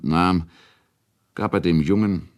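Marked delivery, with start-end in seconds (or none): none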